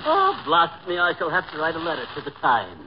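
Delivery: hammed-up English gent, amused; mock British accent. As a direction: exclaim like a British toff. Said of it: "you have no idea how awful you sound".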